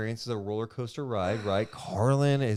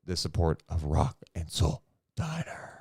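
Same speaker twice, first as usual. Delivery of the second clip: sponsor ad read; 4 semitones lower than usual. Real, not acted. Reads sponsor ad.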